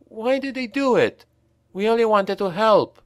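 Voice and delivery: high, tearful plea; near tears. A narrator's reading. Young Franz pleads with Reiner, near tears. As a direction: voice cracking on the edge of tears. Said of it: "on the point of tears".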